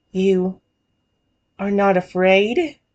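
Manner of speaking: put-on small, childlike little kid voice. Voicing a character in a roleplay story, little kid voice. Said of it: "I'll give him more like the little kid voice".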